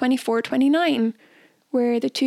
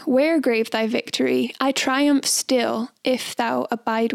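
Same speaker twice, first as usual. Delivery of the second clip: beat poetry. Pretend. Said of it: "I'll do my beatnik poem impression".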